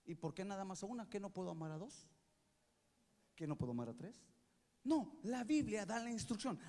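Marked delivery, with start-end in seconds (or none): 0.0-4.2 much softer, whiny lower mock complaint; mock whining. Imagined husband sulking about the instruction, whiny. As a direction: play the sulky husband whining. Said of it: "¿qué dices?".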